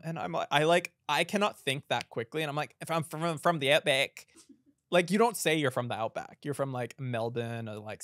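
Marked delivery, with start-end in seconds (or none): 2.8-4.3 hesitant put-on Aussie; Australian accent. Improvising to a girl at Starbucks, Australian accent. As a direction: fumble for an answer in an Australian accent. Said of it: "I can do an Australian accent".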